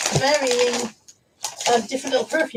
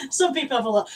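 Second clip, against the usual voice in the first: laughing through it; faster than usual. Real, not acted. Repeats line laughing.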